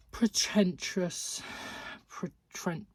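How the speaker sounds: slow, emphatic contempt; scornful verdict. Real, not acted. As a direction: stretch it out with loud disdain. Scornful verdict on hated book.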